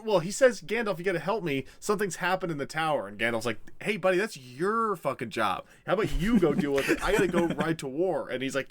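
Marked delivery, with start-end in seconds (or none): 0.6-3.1 higher, hurried cry for help; mock-panicked little hobbit; urgent plea. Acted Pippin pleading for help. 3.8-8.3 higher, hurried comic annoyance; mock-exasperated retort; irritated brush-off. Acted Gandalf brushing off Pippin.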